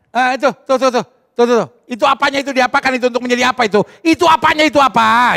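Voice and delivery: fast, fumbling hunt for words; stammer, searching for the word; fumbling old man. Retold or imitated. Lightly voiced grandfather fumbling for a word.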